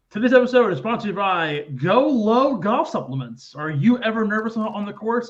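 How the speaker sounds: high, eager salesman pitch. Pretend. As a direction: sell it like a cheesy ad man. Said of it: "like, salesman voice here".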